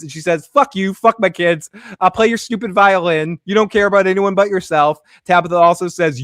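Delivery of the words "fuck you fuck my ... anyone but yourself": raised-voice mock tirade; acted angry retort. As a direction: fling the insults out loudly. Acted quarrel, wife lashing out.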